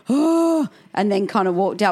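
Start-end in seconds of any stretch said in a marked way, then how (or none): 0.1-0.7 exasperated oh. Retold or imitated. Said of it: "rolled her eyes and just said".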